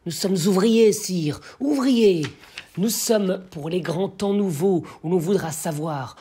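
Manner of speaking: impassioned verse, measured, with swelling cries; poem recitation. Acted. The blacksmith addresses the doomed king, declamatory.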